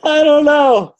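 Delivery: laughing high and loud through the words; can't stop laughing while answering. Real, not acted. Guest laughing at the host's question, answering through laughter.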